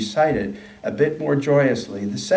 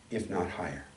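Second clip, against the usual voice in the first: much softer, lower closing line; quietly; 6 semitones lower, 12 dB quieter than usual. A narrator's reading. The disciple quietly answers those who doubt the rabbi. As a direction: let it fall away to almost nothing. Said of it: "He only adds quietly".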